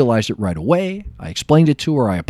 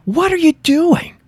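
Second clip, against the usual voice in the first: mock angry demand. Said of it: "I go storming over".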